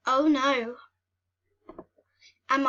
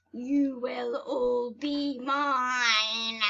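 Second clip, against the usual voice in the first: slow, drawn-out mock menace; gloating villain; much slower than usual. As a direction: savor the threat like a cartoon villain. Cat villain threatens mice.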